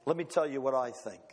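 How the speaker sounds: a low, solemn voice for God; God's voice. Acted. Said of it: "God looks down and he says".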